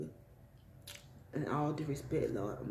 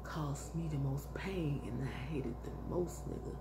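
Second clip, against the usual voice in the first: whisper; 5 dB quieter than usual. Retold or imitated. Voicing God's bitter complaint.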